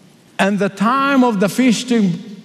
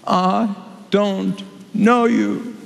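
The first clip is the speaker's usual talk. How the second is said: stern bridegroom; much slower than usual. Acted. Bridegroom rejecting.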